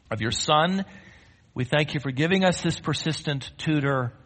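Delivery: measured prayer with long pauses; solemn, spaced-out phrases addressed to God; closing prayer. Real, not acted. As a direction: pray aloud for the congregation, unhurried.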